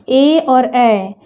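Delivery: each vowel stretched out very slowly; drawn-out teacher demo. Shown as a demonstration. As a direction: spell the sounds out for the class. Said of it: "teacher demonstrates the vowels".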